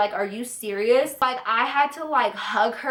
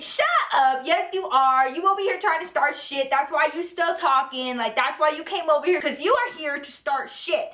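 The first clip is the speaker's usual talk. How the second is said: a retold telling-off, pitched up; retold angry comeback; 4 semitones higher than usual. To Dylan for starting drama, a retold heated comeback.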